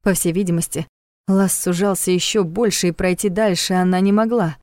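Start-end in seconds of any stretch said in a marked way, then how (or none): none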